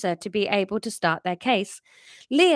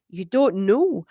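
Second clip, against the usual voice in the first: put-on Scottish accent; 3 dB louder, slower than usual. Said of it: "she was Scottish".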